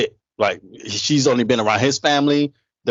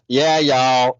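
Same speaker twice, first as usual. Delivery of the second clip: mock Southern accent. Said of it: "why you talking like that".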